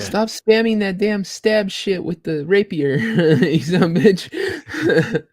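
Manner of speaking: high, slow, laughing outburst; mock angry yell. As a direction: rage at the rapier spammer. Acting out angry player.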